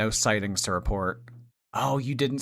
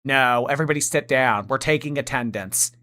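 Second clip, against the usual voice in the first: bitchy substitute teacher; 2 semitones higher, 4 dB louder than usual. Pretend. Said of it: "looks like a bitchy substitute teacher".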